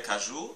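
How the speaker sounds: caju with the final "ju" drawn out; caju, weight on "ju"; stress on last syllable. Shown as a demonstration. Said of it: "c'est la dernière syllabe jou la plus forte".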